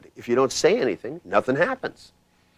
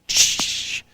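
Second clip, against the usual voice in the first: soft exhale "tsh". Retold or imitated. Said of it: "They go".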